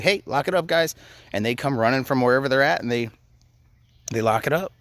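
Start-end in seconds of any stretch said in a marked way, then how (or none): 0.0-0.9 higher calling command; calling the kids. Retold or imitated. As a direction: call the kids over from across the house. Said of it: "just be like".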